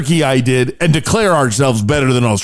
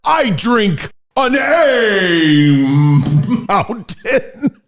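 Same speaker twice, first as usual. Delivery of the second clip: first try; much slower than usual. Shown as a demonstration. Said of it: "Let me try that again".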